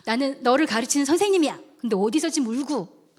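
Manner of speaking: firm retold reprimand; teacher's telling-off, moderately forceful; scolding. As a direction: lay down the law to a crying pupil. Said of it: "제가 책망을 하겠습니다".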